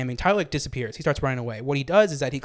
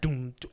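soft "doom" hits; mouthed instrumental; 6 dB quieter than usual. Retold or imitated. Podcaster filling in the music after the scream, softly mouthed. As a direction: imitate the beat softly by mouth.

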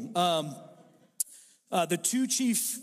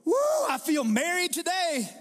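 mock morning cheer; 9 semitones higher, 3 dB louder than usual. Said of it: "I don't wake up in the morning stretching my arms and go".

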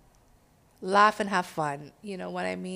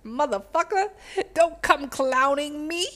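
mock scolding; 8 semitones higher, 4 dB louder than usual. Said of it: "grab their nose and go".

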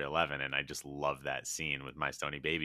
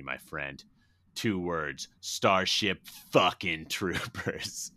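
Ron Fox's fan speech; 4 dB louder than usual. Retold or imitated. Ron honouring his movie hero, hammed-up earnest speech. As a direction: declaim it, drawing out the final words. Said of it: "he goes".

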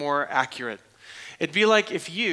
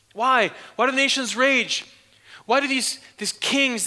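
higher, louder, pressing the question; rising preaching emphasis; 8 semitones higher, 4 dB louder than usual. Real, not acted. Preacher pressing the congregation with the psalm's question. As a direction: demand an answer from the nations.

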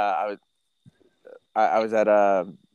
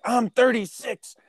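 indignant exclamation; 12 semitones higher, slower than usual. Retold or imitated. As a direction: proudly call out your age while slamming down your ID. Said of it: "I was like".

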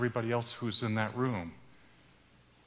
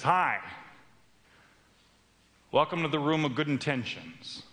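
a light hint of an oily, slick welcome; slick hostess; 2 semitones higher than usual. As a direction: greet him like a smooth salesperson, lightly. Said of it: "sounds a little slick, a little oily".

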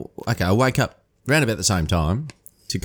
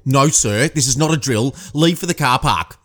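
mock yell; 3 semitones higher, 4 dB louder than usual. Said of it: "they were yelling at people".

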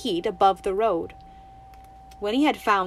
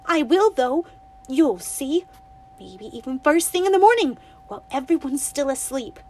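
higher, louder defiant vow; defiant girl; 4 semitones higher, 5 dB louder than usual. Acted. Winnie vowing to the toad she'll run away, defiant. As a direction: promise it stubbornly.

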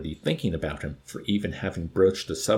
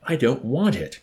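loud, curt retort; snapped; 5 semitones higher, 5 dB louder than usual. Acted. Wickham rejecting the chaplain's tomato, snapping. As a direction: bite it off sharply. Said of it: "snapped again".

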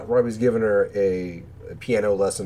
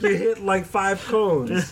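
a lightly voiced, higher character line; mock character voice; 12 semitones higher, slower than usual. Retelling a limo driver test scene, a hint of character voice. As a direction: toss it off in a put-on higher voice.

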